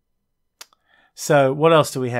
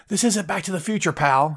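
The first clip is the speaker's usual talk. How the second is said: higher-pitched mock indignation; Kevin Owens; 5 semitones higher than usual. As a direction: scoff as if bent out of shape. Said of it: "Owens could get all bent out of shape".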